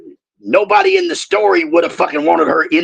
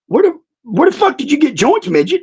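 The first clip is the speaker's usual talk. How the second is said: pitched-up mock demand; retold angry question; 10 semitones higher than usual. Retelling how he confronted the midget, mock angry. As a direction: bark it out, half laughing. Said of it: "And I go".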